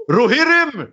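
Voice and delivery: high, loud battle cry; mock epic war cry. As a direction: roar it like a king before a charge. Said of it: "fast i Lord of the Rings".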